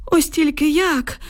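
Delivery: put-on slow, high old man's musing; pensive drawl. A narrator's reading. Old man wonders how to fetch the boy, pensive drawl. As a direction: draw the words out thoughtfully. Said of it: "задумано протяг Юхим Іванович".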